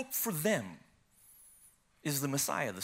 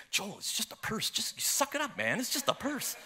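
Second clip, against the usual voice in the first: higher-pitched wifely brush-off; imitated exasperation; 4 semitones higher than usual. Wife beside her weeping husband at the station, imitated exasperation. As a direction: tell him to get over it, without raising volume.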